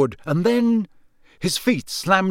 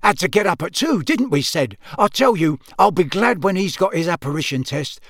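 chatty, good-natured father, pitched higher; hearty Amos Diggory; 4 semitones higher, 3 dB louder than usual. Acted. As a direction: grumble cheerfully to a friend.

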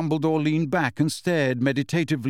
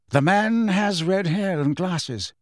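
slow, higher-pitched character voice; lightly voiced headmaster, urgent; 5 semitones higher, slower than usual. Dumbledore briefs the portraits, lightly voiced, deliberate. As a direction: give the description slowly and deliberately.

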